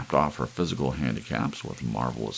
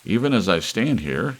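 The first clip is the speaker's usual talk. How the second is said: loud, high bellow; bellowing emperor; 6 semitones higher, 7 dB louder than usual. Acted. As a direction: roar it at the room. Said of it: "he bellowed".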